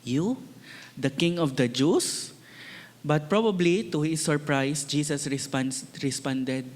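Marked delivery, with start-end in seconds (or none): 0.1-2.3 mock-incredulous, "You" left hanging, then a sharp sneering rise on "Jews"; sarcastic question. Preacher voicing Pilate mocking Jesus, sarcastic. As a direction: scoff at the beaten man as a would-be king. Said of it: "probably sarcastic".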